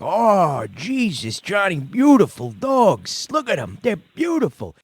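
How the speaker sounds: lightly voiced gentle father admiring the dogs; imitating sweet-talking dad. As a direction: coo over the puppies like a charmed dad. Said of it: "and my father's like".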